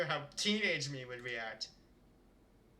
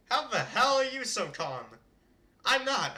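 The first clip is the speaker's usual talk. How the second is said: exasperated; 5 semitones higher, 3 dB louder than usual. Acted. Bickering inner voices.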